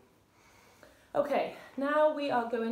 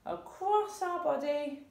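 slow demo; 3 semitones higher than usual. Shown as a demonstration. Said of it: "I'll show you again".

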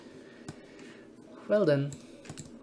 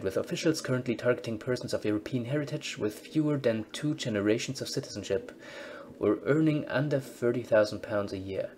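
news report read; 2 semitones higher than usual. Acted. Game news bulletin read to viewers as newsreader.

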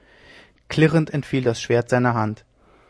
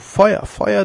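higher, loud cry of alarm; alarm call; 8 semitones higher, 5 dB louder than usual. Acted. Someone warning the crowd of fire, alarm call. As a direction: raise the alarm through the house. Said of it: "der Ruf".

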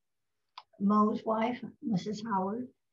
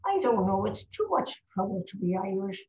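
world-weary Irish brogue; Irish pub drinker. Acted. Drinker in an Irish pub complains to his mate, Irish brogue. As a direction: grumble it in an Irish accent. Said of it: "This is an Irish pub we're in".

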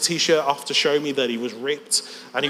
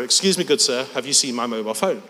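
politely worded, in the usual voice; mock-polite translation. Translating the Scouse for the audience, mildly mock-polite. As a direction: translate it with understated mock courtesy. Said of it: "Which means".

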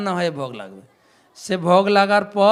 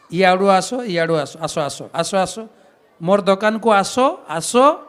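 a panda priest in Odia, calling buyers; lightly voiced Odia shopkeeper calling customers in. The Puri shopkeeper beckons pilgrims to his stall, a lightly voiced Odia call. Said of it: "দোকানদার পান্ডা পূজারি ডাকবে".

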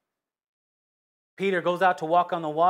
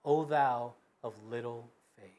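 gentle rebuke; 7 semitones lower, 8 dB quieter than usual. A narrator's reading. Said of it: "He said".

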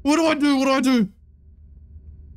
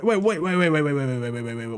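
fading to a whisper; 11 semitones lower, 5 dB quieter, much faster than usual. Real, not acted. Repeated wait fading away.

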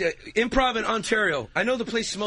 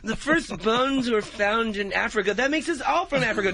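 put-on blonde girl; 4 semitones higher than usual. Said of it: "Some white blonde-haired girl gonna talk".

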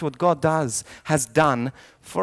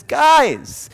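mildly raised, high call; high-pitched mock shout; acted shout; 7 semitones higher, 4 dB louder than usual. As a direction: call out to get the crowd's attention. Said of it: "starts shouting in ant".

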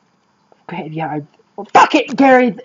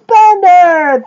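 comic stutter. Acted. Stuttering over his own name.

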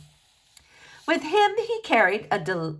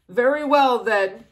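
gulped; 5 dB louder than usual. A narrator's reading. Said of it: "he gulped".

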